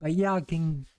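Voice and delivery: lightly voiced southern gal, feisty; a Southern lady bristling at strangers; folksy country woman. Country woman warning off the investigators, feisty Southern accent. Game character voiced by streamer.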